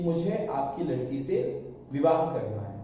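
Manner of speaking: mildly hesitant proposal, slightly held back; hesitant confession. Acted. Ramu asks the village head for his daughter, hesitantly. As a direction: get it out with a touch of hesitation. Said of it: "हिचकिचाते हुए".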